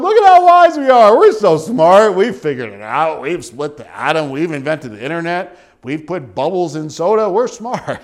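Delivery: mocking proud fools. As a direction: ham up the smug self-praise. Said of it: "'Cause they're going".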